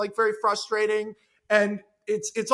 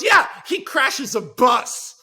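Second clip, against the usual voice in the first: slow deadpan; 4 semitones higher, 7 dB louder, much slower than usual. Retold or imitated. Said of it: "It goes".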